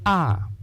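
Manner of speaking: "ah" held long, falling at the end; a sustained open "ah"; long vowel AH. Shown as a demonstration. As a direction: stretch out the "ah". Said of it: "still the long vowel sound".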